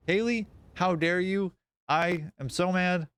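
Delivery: playfully scolding a viewer, fake-mad; mock outrage. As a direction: pretend to be furious at a hug.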